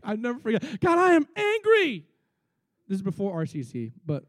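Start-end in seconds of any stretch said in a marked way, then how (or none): 0.8-2.1 high, firm admission to God; high, earnest mock-confession; honest confession. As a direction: say it straight out for once. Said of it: "And one time I said".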